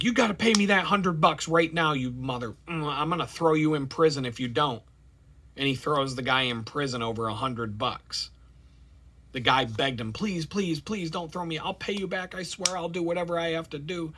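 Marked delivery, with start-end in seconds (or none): 0.0-4.8 demanding. Pretend. Servant demands money harshly. 10.1-14.1 begging. Pretend. Debtor begs for mercy.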